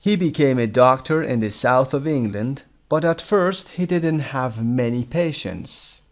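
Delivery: slow, carefully spaced English reading; slow teaching read-aloud. Shown as a demonstration. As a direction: read the text slowly for language learners. Reads English text for learners. (روخوانی آهسته و آموزشی متن انگلیسی)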